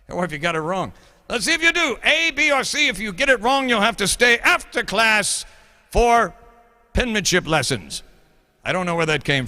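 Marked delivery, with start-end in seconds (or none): 1.3-8.0 put-on higher-pitched English accent, a stuffy professor addressing the class; hammed-up English accent lecturing students. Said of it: "the English accent".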